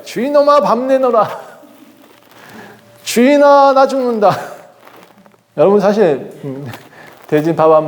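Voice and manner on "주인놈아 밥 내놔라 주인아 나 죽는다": high, laughing mock pig voice demanding food; hungry pigs demanding. Preacher voicing pigs yelling at their master, high laughing mock demand. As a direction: squeal it like a starving pig bossing its master. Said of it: "이렇게 말하는 거예요".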